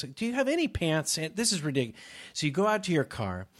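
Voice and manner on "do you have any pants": higher, exasperated ask; imitating the club owner's exasperation; high mock question. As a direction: pitch it up like an annoyed boss. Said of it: "So he goes".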